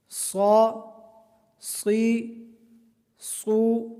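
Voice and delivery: heavy and hissing صا; heavy whistling sad. Shown as a demonstration. Teacher shows صاد heavy and whistling. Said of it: "پر پڑھیں گے اور سیٹی کی طرح".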